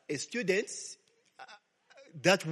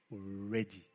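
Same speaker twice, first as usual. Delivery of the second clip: Lord's quiet warning; 8 semitones lower, 9 dB quieter than usual. Retold or imitated. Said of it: "Remember that story? You'll be what?".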